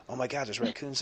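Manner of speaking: high, panicky city in-law; hammed-up fright at raccoons; a touch of mock terror. Scared in-law quoted.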